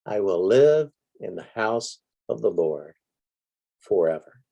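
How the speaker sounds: measured pulpit recitation, settling down at the end; closing psalm line. Acted. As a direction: bring the psalm to a solemn close.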